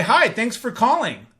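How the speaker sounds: bright, eager phone greeting; excited greeting. Shown as a demonstration. Sales rep greeting a caller with excitement. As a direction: answer like you're glad they called. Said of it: "when I demonstrate that".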